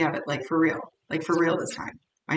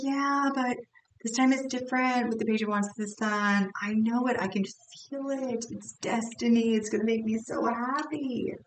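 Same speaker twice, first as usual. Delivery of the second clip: higher, lightly mocking dreamy voice; mock hopeful client; 5 semitones higher than usual. Reader mocking a client's hopeful wishful thinking, lightly higher and teasing. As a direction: play the naive believer with a knowing tease. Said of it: "But you're like".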